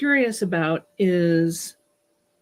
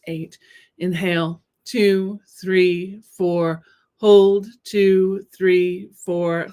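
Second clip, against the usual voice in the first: counting breaths, holds punched, exhales fading; breathing coach count; much slower than usual. Acted.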